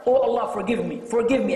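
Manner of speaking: firm plea, repeated insistently. Shown as a demonstration. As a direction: insist on forgive me with firmness. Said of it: "be firm".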